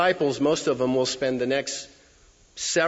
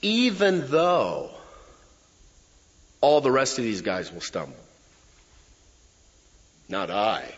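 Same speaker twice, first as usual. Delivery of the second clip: boastful paraphrase; 4 semitones lower than usual. Retold or imitated. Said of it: "It could almost be translated".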